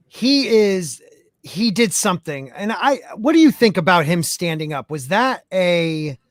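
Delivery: glitchy robotic connection voice. Real, not acted. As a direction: voice going robotic on a bad line. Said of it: "being robotic".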